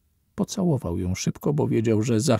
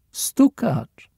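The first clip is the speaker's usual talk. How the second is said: laughing; 10 semitones higher than usual. A narrator's reading. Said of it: "zaśmiała się".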